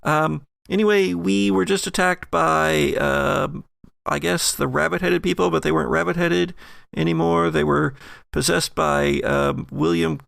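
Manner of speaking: high-pitched Allison rambling over the phone; Allison's voice. Acted. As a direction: chatter it as Allison, high and casual. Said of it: "And she says".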